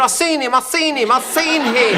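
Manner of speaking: high, insistent show-off; Cyril voice. Retold or imitated. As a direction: squeak it out like a know-all. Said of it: "Cyril was the sort of fellow".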